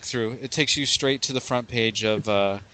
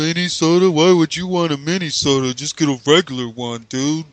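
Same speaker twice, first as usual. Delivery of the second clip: loud, higher, put-on Minnesota accent, mocking a fan; a jokey Minnesota-Midwest accent, a bit higher and louder; 4 semitones higher, 4 dB louder than usual. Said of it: "a lot of accents mixed into one".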